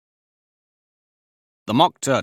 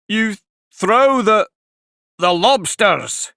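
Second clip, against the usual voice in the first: high, slow, louder; excited; 10 semitones higher, 5 dB louder, slower than usual. A narrator's reading. Mock Turtle gets carried away describing the dance, high and slow. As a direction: build up the excitement.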